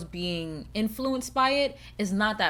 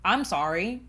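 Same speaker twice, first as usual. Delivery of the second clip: mock apology with no regret; sarcastic; 2 semitones lower, slower than usual. Real, not acted. Mother-to-be defending her phone rule, sarcastically. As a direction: apologize as a joke. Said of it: "That was sarcasm in my voice".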